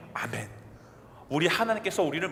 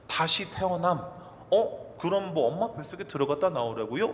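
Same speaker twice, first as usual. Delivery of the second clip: mocking sneer. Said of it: "비아냥거리는 거예요".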